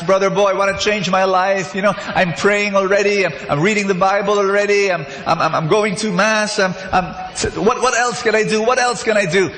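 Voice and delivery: lightly voiced desperate believer asking for help; imitating a tearful churchgoer. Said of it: "tears in their eyes".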